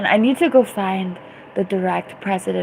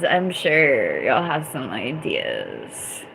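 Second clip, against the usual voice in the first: dry aside; 5 semitones lower, slower than usual. Real, not acted.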